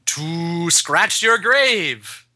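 very slow, eerie monster line; monster reply. Acted. Reader voicing the monster answering Zach, slow. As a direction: drawl it out like a creature.

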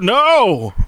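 high, sudden yelled refusal; acted yell. Poster yelling back to sister, high acted yell. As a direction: yell it out in mock panic. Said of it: "I just yelled out".

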